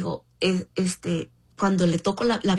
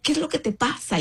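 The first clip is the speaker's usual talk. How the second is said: higher quoted man; 7 semitones higher than usual. Retold or imitated.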